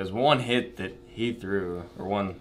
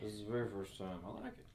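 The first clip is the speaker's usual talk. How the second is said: whispering; 15 dB quieter than usual. Real, not acted. Quiet house, others sleeping.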